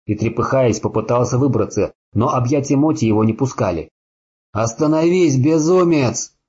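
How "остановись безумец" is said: terrified shout. Acted. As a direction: scream at him in horror. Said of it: "выкрикнул Люк в ужасе".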